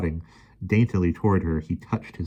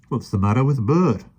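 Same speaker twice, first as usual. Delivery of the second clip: muttered; 6 semitones higher, 5 dB louder than usual. A narrator's reading. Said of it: "the park keeper muttered".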